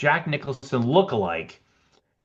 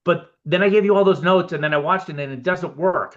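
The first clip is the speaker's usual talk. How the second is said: higher and louder, puzzled Warren Beatty; Warren Beatty impression; 6 semitones higher, 4 dB louder than usual. Warren Beatty tells the editor it doesn't work, higher and louder. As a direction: push the complaint up high and loud. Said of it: "and he goes".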